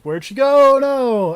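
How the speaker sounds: sudden high alarmed shout; panicked yell. Retold or imitated. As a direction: cry it out in a burst of panic. Panicked player quote retold.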